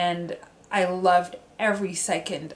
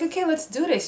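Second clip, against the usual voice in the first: mock pep talk; 9 semitones higher, faster than usual. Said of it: "And I was like".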